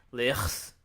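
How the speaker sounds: Lis in a mock Arabic accent. Shown as a demonstration. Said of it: "give it, like, an Arabic accent".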